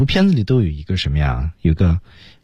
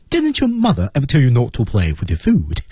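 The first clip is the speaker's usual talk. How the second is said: Zazu; 4 semitones higher than usual. Acted. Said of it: "那里面扮演的就是Zazu".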